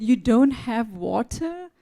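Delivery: can't believe there's no water; disbelief. Retold or imitated. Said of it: "And I said".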